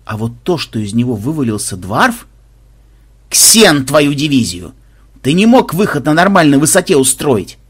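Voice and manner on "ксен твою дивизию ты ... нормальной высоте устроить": loud, annoyed gruff dwarf; irritated dwarf grumble. Acted. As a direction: snap at him, fed up. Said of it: "раздражённо буркнул гном". (раздражённый окрик гнома)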